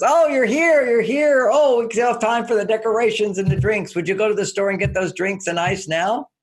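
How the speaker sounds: delighted welcome. Retold or imitated. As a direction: gush over him with joy. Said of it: "and she goes".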